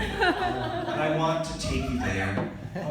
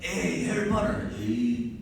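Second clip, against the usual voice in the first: put-on higher, drawn-out Hispanic-accented question; 6 semitones higher, slower than usual. Guys hiding in hallway ask about cops, Hispanic accent. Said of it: "that I shouldn't do that accent".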